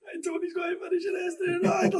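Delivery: high, overwhelmed shout of the words read aloud; emotional reading. Retold or imitated. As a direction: read it out half shouting, carried away. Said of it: "I was so emotional".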